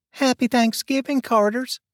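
high, cheerful called greeting; guests shouting greeting. Acted. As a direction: call it out at the door. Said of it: "shouted Jack and Wanda".

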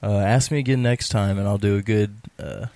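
talking with a sore throat; hoarse from a sore throat. Real, not acted. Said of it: "I've got a sore throat right now".

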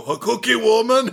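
host mocking the Loomis actor; bad Loomis impression. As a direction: parody a bad Loomis line, high. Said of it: "jump in and go".

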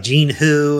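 mildly puzzled query; retold puzzlement, slightly lifted. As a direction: voice a clerk who doesn't know the name. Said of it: "she sounded puzzled".

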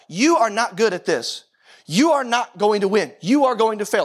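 slow, heavy accusing drone, a hint of a condemning voice; lightly voiced inner accuser, slow and deliberate. Pastor voicing the condemning inner voice, slow and accusing. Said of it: "the voice of condemnation comes into your life and says".

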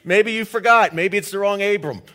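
old man's mock protest to God; incredulous Abraham. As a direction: tell God he's got the wrong man, half laughing. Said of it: "It's like".

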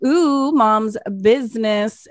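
slow, teasing imitation of the kids; mocking air quotes. Kids making fun of mom's business, slow mocking. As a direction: draw it out in mock awe. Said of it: "to make fun of me".

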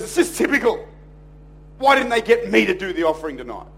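imitating a sulky complaint; mild mock indignation; cranky. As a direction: grumble like a slighted colleague. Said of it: "he is angry and cranky".

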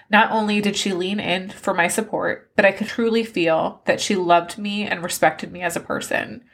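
tearful, moved reading of praise; reading through tears. Real, not acted. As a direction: read it while trying not to cry. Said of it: "As I sit here bawling".

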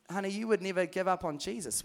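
soft, gentle plea; tender question. Retold or imitated. Dad to grieving mum, soft tender question. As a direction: coax her softly. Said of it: "my dad came one day".

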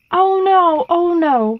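high, loud flustered dismay; worried. A narrator's reading. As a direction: fret aloud at having scared someone. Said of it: "worried the someone".

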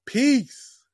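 high, falling drawn-out sign-off; showy sign-off. Shown as a demonstration. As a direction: pitch it way up and let it drop. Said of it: "That's how you do it".

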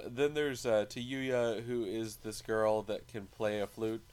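normal talking voice

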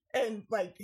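usual speaking voice

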